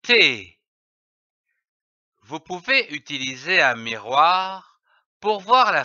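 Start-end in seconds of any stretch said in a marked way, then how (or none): 0.0-0.6 T as a short crisp t consonant, lips stretched to show the teeth; teacher modelling the consonant T; the T sound. Shown as a demonstration. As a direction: pronounce T clearly as a model for a child. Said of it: "Je prononce le son".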